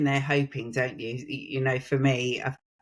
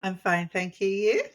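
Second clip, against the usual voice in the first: plummy upper-class English; posh voice; 5 semitones higher than usual. Acted. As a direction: put on a posh accent. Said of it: "I did a really posh voice".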